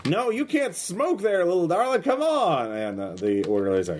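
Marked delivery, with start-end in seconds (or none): 0.1-2.7 high, slow Texas drawl, whispered start; Texas accent. Acted. Menacing man hushing his hostage, hammed-up Texas accent. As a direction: lean in with a fake-sweet Texas hush. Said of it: "Your Texas accent is atrocious".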